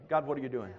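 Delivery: "God, what are you doing?" muttered low and soft; quiet complaint. Retold or imitated. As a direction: say it low and soft, like a private grumble. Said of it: "how many of you ever been that way".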